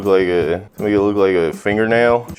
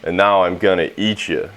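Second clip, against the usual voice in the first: low, anticlimactic punchline delivery; lightly voiced weird cousin, pitched down; booger-picking cousin; 4 semitones lower than usual. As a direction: drop the menace for the silly reveal. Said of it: "his cousin Melvin sitting in his bedroom with a booger on his finger saying".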